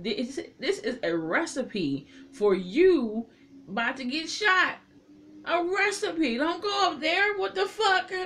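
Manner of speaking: alarmed yelling at the TV; frantic warning. Retold or imitated. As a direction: shout it like yelling at a horror movie character.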